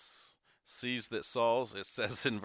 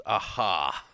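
a louder, drawn-out discovery "aha"; Abner's "aha"; 5 dB louder than usual. Acted. Abner spotting his sleeping enemy, hammed-up aha. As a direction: pounce lightly on the HA. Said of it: "That's his version".

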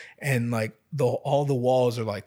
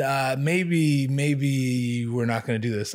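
hesitant backing out; slower than usual. Retold or imitated. Imagined polite backing out of tattoo.

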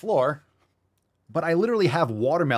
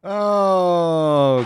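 a loud, high mock wailing oh; 6 semitones higher, 7 dB louder than usual. Real, not acted. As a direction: let out a loud mock cry. Reaction to the kid line.

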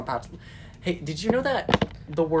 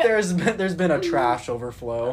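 police radio; 6 dB louder than usual. Pretend. Pretend radio report.

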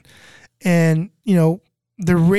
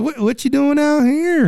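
Kentucky hick; 9 semitones higher than usual. Retold or imitated. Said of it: "Kentucky guy, hick".

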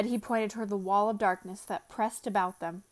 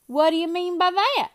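demanding; 9 semitones higher, 7 dB louder than usual. A narrator's reading. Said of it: "Bill demanded".

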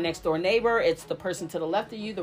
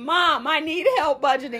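high pleading daughter; 7 semitones higher, 4 dB louder than usual. Retold or imitated. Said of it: "Sharita came".

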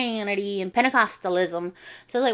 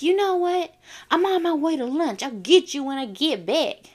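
retold threat; 7 semitones higher than usual. Acted quarrel, bully threatens.

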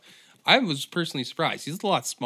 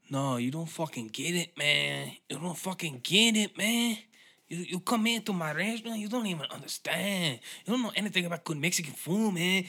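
high, put-on aggrieved chef voice; defensive restaurant owner; 6 semitones higher than usual. Head chef protesting to Gordon Ramsay, high indignant whine. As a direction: caricature an owner who won't be told. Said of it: "or the head chef's like".

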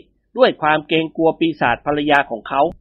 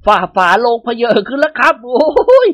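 stammering, high and louder, slow with fear; trembling terror; 6 semitones higher, 5 dB louder, slower than usual. Acted. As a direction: shake so hard the words catch. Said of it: "ตัวสั่นงันงก". (เสียงสั่นตะกุกตะกักด้วยความกลัว)

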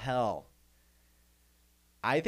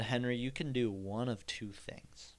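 voice of God. Retold or imitated. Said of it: "He said".

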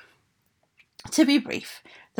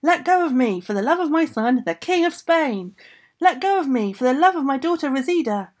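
loud, higher, building pained yells; ogress shouting in pain; 6 semitones higher, 5 dB louder than usual. A narrator's reading. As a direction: scream to be released, louder each time. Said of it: "and so she shouted".

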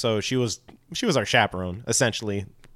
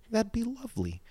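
put-on drunk lady voice; 11 semitones higher, 9 dB quieter than usual. Imitating the drunk lady accepting.

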